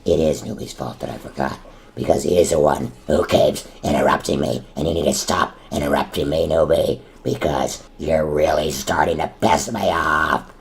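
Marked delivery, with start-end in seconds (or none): 1.9-10.5 getting angry. Acted. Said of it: "Oh, I'm getting so angry".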